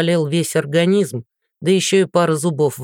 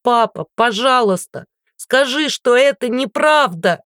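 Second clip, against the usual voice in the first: desperate scream; 7 semitones higher than usual. Acted. Daughter screams at her father to deny it. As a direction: scream it at him, begging. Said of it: "сорвалась на крик".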